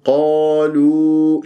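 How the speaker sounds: recited قالوا with two evenly held long vowels; heavy qaf, light lam. Shown as a demonstration. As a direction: darken the qa of قالوا, keep the l thin. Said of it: "اللام مرققة، وراح يكون".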